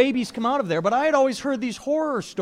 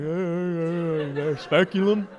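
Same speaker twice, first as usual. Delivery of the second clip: confused guys; 3 semitones lower, much slower than usual. Retold or imitated. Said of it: "stare at me like".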